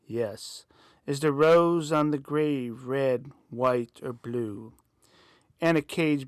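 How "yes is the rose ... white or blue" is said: cracking voice through static; crackling phone static. Acted. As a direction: voice breaking up on a bad line. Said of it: "Voice cracking with a hint of static".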